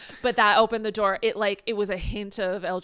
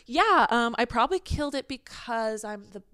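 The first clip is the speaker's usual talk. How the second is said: smug diva voice; 4 semitones higher, slower than usual. Retold or imitated. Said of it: "Literally me just being like".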